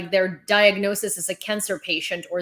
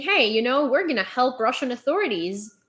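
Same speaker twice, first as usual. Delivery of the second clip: mock innocent official; 4 semitones higher than usual. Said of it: "they're just saying".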